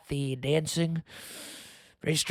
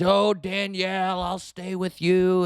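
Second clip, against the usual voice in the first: slow, slightly raised mock-devoted voice; mock devoted boyfriend; 3 semitones higher, 3 dB louder, slower than usual. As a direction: imitate a doting boyfriend, drawing it out. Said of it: "he sticks around. He says".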